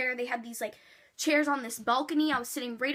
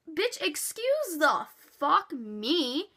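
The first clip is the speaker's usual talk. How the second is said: slow, drawn-out, indignant comeback; sassy retort; 3 semitones higher, much slower than usual. Retold or imitated. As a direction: stretch every word in disbelief. Retorts to rude security guard.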